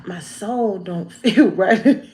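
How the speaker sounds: hushed, uneasy whisper of doubt; inner doubt. Retold or imitated. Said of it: "and realize".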